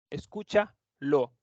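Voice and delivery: Escúchalo said slowly, each syllable es-CÚ-cha-lo drawn out; slow careful model word. Shown as a demonstration. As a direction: spell out Escúchalo slowly for the students.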